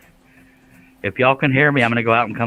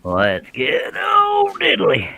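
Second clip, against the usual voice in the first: excited holler; much slower than usual. Real, not acted. Host hollers a silly catchphrase.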